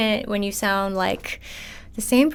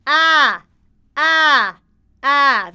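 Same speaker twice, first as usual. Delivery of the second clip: loud, higher nasty ah in chest; 5 semitones higher, 5 dB louder, much slower than usual. Shown as a demonstration. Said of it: "like, a really nasty".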